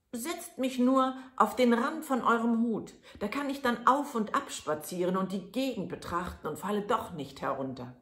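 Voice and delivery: put-on high, bright little boy's voice; lightly high, eager little lad; tiny Daumestick. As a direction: voice the thumb-sized hero. Daumestick's voice in the tale.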